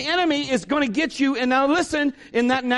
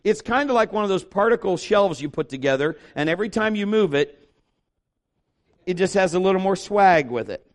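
normal talking voice

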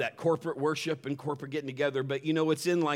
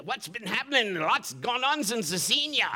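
pirate voice; 8 semitones higher than usual. Retold or imitated. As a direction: play a jolly pirate greeting his old mate. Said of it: "my best pirate voice".

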